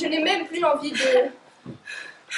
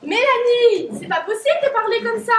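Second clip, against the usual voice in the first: raised, indignant call of her name; sharp rebuke; 5 semitones higher, 5 dB louder than usual. Acted. Friend scolds Mélanie for her bitter words, raised and indignant. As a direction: cut her off, scandalized.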